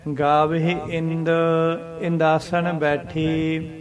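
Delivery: drawn-out scripture reading; slow recitation. Shown as a demonstration. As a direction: recite slowly with pauses. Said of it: "ਇਸ ਤਰ੍ਹਾਂ".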